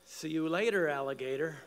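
retold yell, punched at the start; called-out farewell. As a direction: call it out to departing grandkids. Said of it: "my wife and I would yell out".

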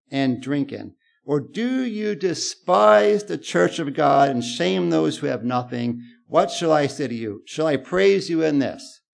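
a touch of hammed-up scolding; emphatic Paul. Preacher voicing Paul rebuking the Corinthian church, emphatic. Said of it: "in his emphatic way".

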